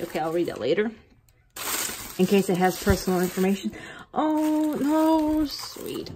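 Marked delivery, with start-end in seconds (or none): 4.1-6.1 high touched "Oh, no"; touched gasp. Real, not acted. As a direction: catch your breath, moved. Moved by seller's gift.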